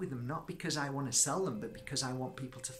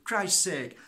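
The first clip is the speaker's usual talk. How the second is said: high, loud disbelief; amazed exclamation; 9 semitones higher, 6 dB louder than usual. Real, not acted. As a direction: exclaim at how incredible it is. Amazed at boy's young age.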